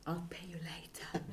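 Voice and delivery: hushed, whispery aside; joking aside. Real, not acted. Lecturer jokes to the colleague who introduced her, hushed aside.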